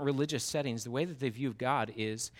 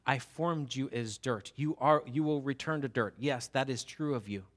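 God speaking; 5 dB louder than usual. Acted. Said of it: "He says".

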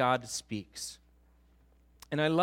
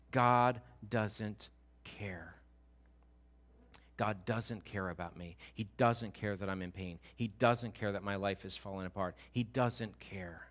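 low, slow, heavy resignation; understated despair, sinking at each phrase end; despondent Job; 4 semitones lower, 4 dB quieter than usual. Acted. Voices Job's bitter summary.

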